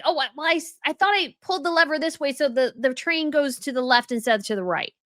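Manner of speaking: mocking Meghan. Vlogger mocking Meghan's excuse about the train, whiny mock voice. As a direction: brush it off like a clueless excuse-maker. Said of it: "and it's like".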